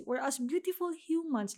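"beautiful" lifted high in pitch; stress on BEAUTIFUL. Real, not acted. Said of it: "Let me emphasize the word beautiful".

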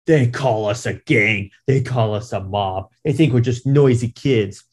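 gang leader voice. Retold or imitated. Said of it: "I'll do the voice here too".

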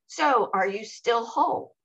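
lightly imitated casual needling; retold teasing question. Man beside her at a dance, lightly teasing. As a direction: quote his question, only slightly lifted. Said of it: "he turns to me and he goes".

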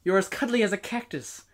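slow, deadpan poem reading; monotone recital. Shown as a demonstration. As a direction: read the lyrics flat and slow. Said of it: "I'm gonna say it in a monotone tone".

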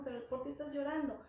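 asked as a real question, pitch up at the start; genuine question. Shown as a demonstration. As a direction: parent gently asking a crying child why, a real question. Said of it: "con una forma de pregunta".

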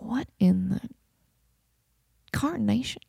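whispered, puzzled; whispered confusion. Retold or imitated. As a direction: whisper it in disbelief. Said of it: "We're like".

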